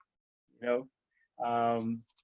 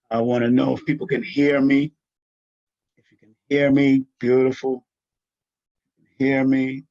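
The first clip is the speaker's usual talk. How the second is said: louder, projecting to the listeners; calling out; 8 dB louder than usual. Real, not acted. Host checking if viewers can hear him, calling out loud. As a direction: call out to be heard.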